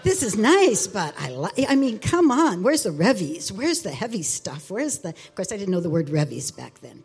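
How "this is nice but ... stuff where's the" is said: higher and louder, half laughing in exasperation; pleading with God, fed up and laughing at herself; frustrated. Retold or imitated. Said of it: "getting so frustrated".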